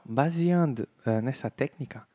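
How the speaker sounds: usual speaking voice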